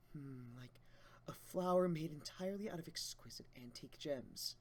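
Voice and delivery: dreamy whisper. Acted. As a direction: breathe it like a secret. Dreamy fantasy line whispered.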